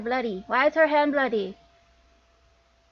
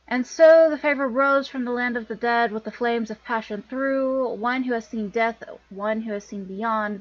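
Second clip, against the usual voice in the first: prophecy narration. Acted. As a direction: recite it like an ancient prophecy. Reads out a prophecy in-game.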